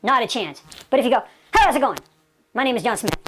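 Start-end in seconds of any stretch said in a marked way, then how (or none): 1.5-3.2 quick, punchy, casual greeting; match his brisk pace. Shown as a demonstration. Salesman greeting a doctor the right way, brisk and casual. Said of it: "you've matched pacing, vocal tonality".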